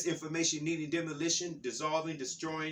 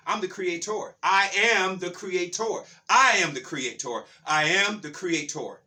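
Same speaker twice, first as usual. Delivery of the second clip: emphatic, deliberate proclamation; forceful preaching; 2 semitones higher, 4 dB louder than usual. Real, not acted. Preacher declaring I am the creator, forceful and emphatic. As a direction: proclaim it with weight on each key word.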